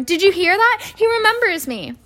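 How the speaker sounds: thrilled, pitch leaping high; excited cry. A narrator's reading. Diggle telling everyone Harry remembers him, excited cry. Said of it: "cried Deadliest Diggle, looking around".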